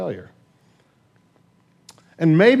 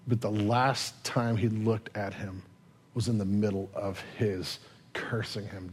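soft, lowered, heavy storytelling; somber hush; 4 semitones lower, 5 dB quieter than usual. Real, not acted. Preacher telling of Peter's guilt after the denial, somber hush. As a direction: let it sink low and hushed, with weighted pauses.

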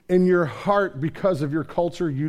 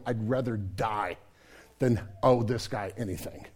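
disgusted mutter; 7 semitones lower, 6 dB quieter than usual. Retold or imitated. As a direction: grumble it under your breath. Jewish listener's disgusted reaction.

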